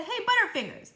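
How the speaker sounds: high, loud jeer; taunting call. A narrator's reading. Kids mocking Eric Fry, high teasing jeer. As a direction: sing it out to mock him.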